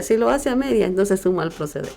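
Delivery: ordinary talk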